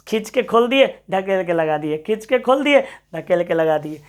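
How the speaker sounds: teacher miming a door knob with the voice; acting out pull and push. Shown as a demonstration. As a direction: swing the voice up for pulling, down for pushing. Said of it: "मुट्ठा लगवा देते हैं".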